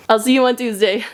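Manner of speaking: giggly sign-off; laughing. Real, not acted. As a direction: laugh through the goodbye. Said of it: "Anyway, sorry".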